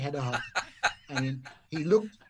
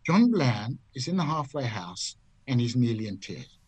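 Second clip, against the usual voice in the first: deliberate checking; 3 dB louder than usual. Retold or imitated. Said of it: "Let me get this straight".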